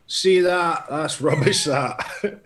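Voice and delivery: lightly put-on Scottish accent; a hint of comic Scottish. Joke-teller as unhappy shop customer, mock Scottish accent. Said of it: "did you do that in a Scottish accent".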